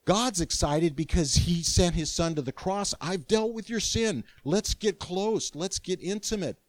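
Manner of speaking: God coaxing the sinner close, eager and loving; excited loving God. Retold or imitated. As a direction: voice God bursting with love. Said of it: "He says".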